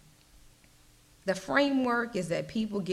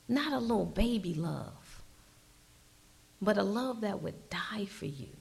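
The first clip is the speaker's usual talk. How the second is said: whispered. Acted. Describing sacrificial love.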